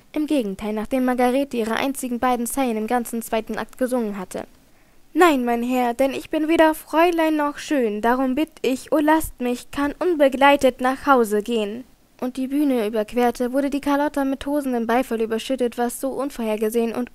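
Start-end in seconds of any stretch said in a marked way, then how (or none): 5.1-11.8 lilting theatrical verse, rising on phrases; recited opera verse. A narrator's reading. Margarete turns down a gentleman on stage, in lilting verse. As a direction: declaim it in a sing-song arc.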